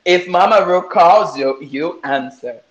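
slow, deliberate English catchphrase; stretched-out, measured show motto; slow slogan delivery. Acted. Slogan recited slowly in English.

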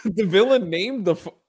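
high-pitched disbelief breaking into laughter; too stunned and amused to finish; incredulous. Real, not acted. Reacting to the villain's name, laughing disbelief.

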